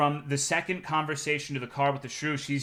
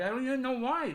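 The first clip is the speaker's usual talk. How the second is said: high mocking whine, a bit softer; mocking whine again; 9 semitones higher, 4 dB quieter than usual. Streamer repeats the shrew's excuse, softer whiny mock.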